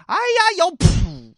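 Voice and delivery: very high, loud yelp as the punch lands; pained yelp. Acted. Waiter struck in the face by Shi Qian, high loud yelp. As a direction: cry out like a punched coward.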